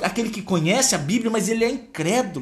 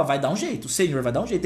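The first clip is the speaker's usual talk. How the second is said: restful trust; 5 semitones lower, faster than usual. Acted. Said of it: "descansar e falar".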